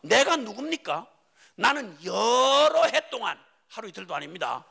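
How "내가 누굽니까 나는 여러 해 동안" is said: 따지는 형. Acted. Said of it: "이렇게 말합니다".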